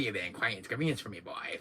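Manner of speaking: fast, lightly voiced villain line; a hint of a smug villain; Wesker impression. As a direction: toss it off smugly.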